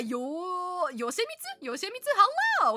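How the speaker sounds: bright high hello; excited greeting. Real, not acted. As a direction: greet them with a burst of joy. Greeting chat member excitedly.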